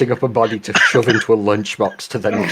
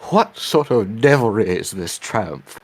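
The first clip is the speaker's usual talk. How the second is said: put-on slow Southern preacher accent; drawn-out Southern preacher voice; slower than usual. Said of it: "I think I got the voice back".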